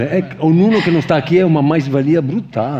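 ordinary talk

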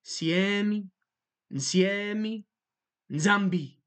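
Siemi, Nsiemi, Nzambi with nasal onsets building; nasal emphasis. Shown as a demonstration. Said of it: "Do you hear how much more emphasized".

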